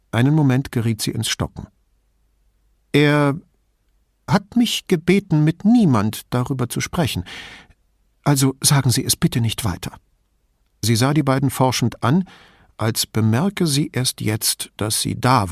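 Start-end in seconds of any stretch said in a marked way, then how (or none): 2.9-9.9 put-on higher-pitched voice of a griping old lady; old lady, indignant and chatty; old signora. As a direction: play the suspicious old woman complaining about thieves. Old signora asks secrecy.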